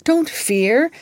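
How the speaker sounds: high hopeful whisper. Acted. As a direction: soothe him in a bright whisper. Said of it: "said Eliza hopefully".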